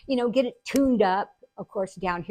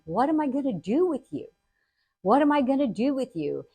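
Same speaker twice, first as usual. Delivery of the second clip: lightly voiced, higher, bemused father; exasperated dad; 4 semitones higher than usual. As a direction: ask it in mild, affectionate despair. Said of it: "look at me like I had lost my mind".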